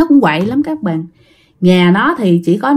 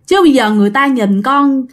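praying to father; 3 semitones higher than usual. Retold or imitated. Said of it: "chị gái mới khấn vái như vậy".

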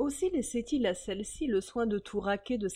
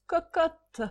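écho du cri au cheval; 10 semitones higher, 5 dB louder than usual. Acted.

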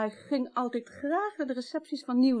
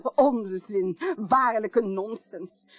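a louder, slow, laughing brush-off; scoffing dismissal; 5 dB louder, much slower than usual. Acted. The widow dismisses the detectives' holiday claim with a scoffing laugh. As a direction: laugh the claim away as nonsense.

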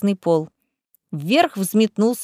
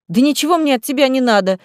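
angry outburst; flaring up; 3 semitones higher, 3 dB louder than usual. Acted. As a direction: snap back in irritation. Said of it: "вспылила Лиза".

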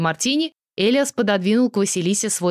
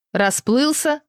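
plain reading voice

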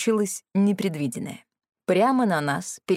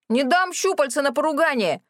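higher-pitched yell; yelling from above; 7 semitones higher than usual. A narrator's reading. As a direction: shout it down from the roof. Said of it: "вдруг заорал сверху Рэнди".

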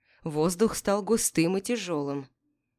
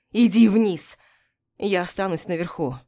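commanding shout; 5 dB louder than usual. Acted. Captain orders her below.

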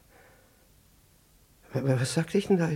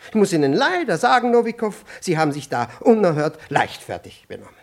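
loud, raised scolding of a subordinate; stern rebuke; 4 semitones higher, 4 dB louder than usual. Acted. Superior scolding Nowikow for carelessness, loud and stern. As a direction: dress him down from above.

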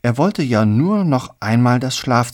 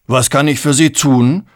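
asking while chewing, raised voice; 4 semitones higher, 5 dB louder than usual. Acted. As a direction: casually ask between bites. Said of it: "fragte er kauend". (kauend fragen)

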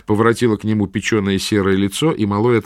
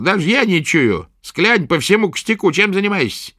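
put-on gruff old witch; 10 semitones higher than usual. A narrator's reading. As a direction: prod the patient roughly. Witch speaks.

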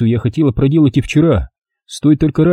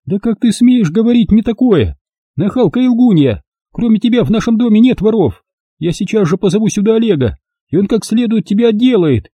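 furious mistress; 8 semitones higher than usual. A narrator's reading. Olga threatening to call Oleg, furious. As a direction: lash out at the liar.

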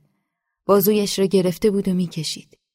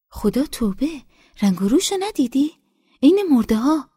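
insistent village woman; 8 semitones higher than usual. A narrator's reading. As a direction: press the point, shocked. Nesa argues about girl's health.

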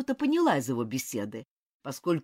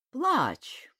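тихое беззвучное «Плачь» с деланным гневом; выдохни «Плачь» шёпотом, играя гнев; наигранный шёпот; 7 semitones higher than usual. A narrator's reading. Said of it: "с наигранным гневом сказал". (шёпотом «Плачь» с напускной злостью)

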